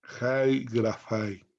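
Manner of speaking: slow "Jai grafai", with a Spanish j on "Jai"; pronunciation model. Shown as a demonstration. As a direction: say "Jai grafai" word by word, slowly. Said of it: "Y se pronuncia así". ("Jai grafai" pronunciado despacio, con jota)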